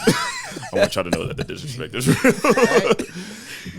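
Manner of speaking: slow, high laughing holler; laughing shout. Real, not acted. Teasing his cohost about the disrespect, a slow high laughing shout. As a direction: belt it out through the laughter. Mock outrage over cooking disrespect.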